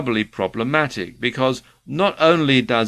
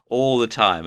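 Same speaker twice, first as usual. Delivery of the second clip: normal talking voice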